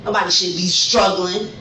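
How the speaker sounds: building from firm to shouting; real anger swelling into a shout; angry rant. Real, not acted. Protesting arrest, escalating rant.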